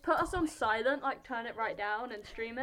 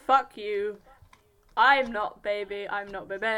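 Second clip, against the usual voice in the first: loud mock-indignant protest; indignant shout; 10 dB louder than usual. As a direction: yell it in mock outrage. Mock-indignant about being young.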